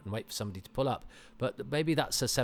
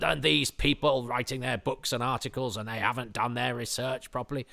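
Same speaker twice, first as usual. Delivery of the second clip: retold irked complaint; 3 semitones higher than usual. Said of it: "I was irked".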